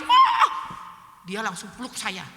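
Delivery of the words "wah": high, loud mock wail; imitated burst of crying. Speaker re-enacting breaking down before the friend, crying wail. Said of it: "Langsung saya nangis".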